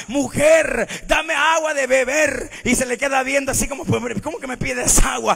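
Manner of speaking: loud, animated sermon storytelling; forceful preaching. Real, not acted. Preacher retelling the well encounter to the congregation, forceful. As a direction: tell the Bible story at preaching volume.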